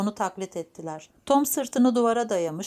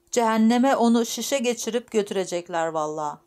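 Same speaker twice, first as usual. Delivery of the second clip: higher, mildly heated grumbling; worked-up old woman; 3 semitones higher, 4 dB louder than usual. Acted. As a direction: scold with a touch of temper, lightly acted. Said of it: "Hırslanmıştı yaşlı kadın". (hafifçe hırslanmış yaşlı kadın)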